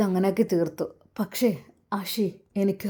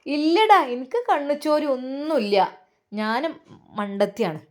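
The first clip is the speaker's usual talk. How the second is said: mother snapping back; 4 semitones higher than usual. Acted.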